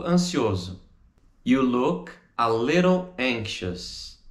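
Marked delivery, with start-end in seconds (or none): 1.4-4.2 "You look, a little, anxious" in slow chunks; slow, separated model. Shown as a demonstration. Teacher models the answer, slow separated chunks.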